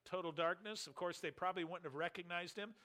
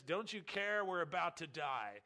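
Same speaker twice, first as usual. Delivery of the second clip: panicked plea; 3 semitones higher, 5 dB louder than usual. Retold or imitated. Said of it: "they have to wake Jesus and says".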